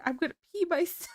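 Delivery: high, fast, imitating a mom helpless with laughter; mock giggly panic, high and fast; imitating mom laughing. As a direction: play mom almost wetting herself from laughing. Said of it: "She's laughing so hard, she's like".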